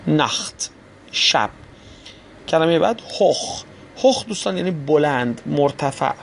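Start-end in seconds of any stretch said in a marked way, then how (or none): 0.1-0.7 ناخت with a rasped خ before the final t. Shown as a demonstration. Teacher applies the rule to the word for night, ch as kh. 3.2-3.6 هخ as "hokh", ending in a throaty خ. Shown as a demonstration. Teacher introduces the next example word, ch as kh.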